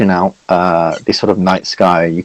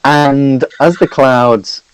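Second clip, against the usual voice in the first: game master narration. Acted. Game master scene setting.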